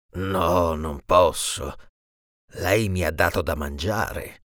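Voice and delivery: a hint of a big beast calmly refusing; lion's refusal. Lion refuses the genie, lightly voiced low and slow. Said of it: "il genio urlò al leone".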